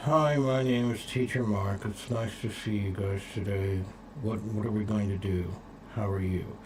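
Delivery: soft, unclear mumbling through a still mouth. A teacher demonstrates unclear speech: mumbled with little mouth movement. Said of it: "mumbling means if I speak like this".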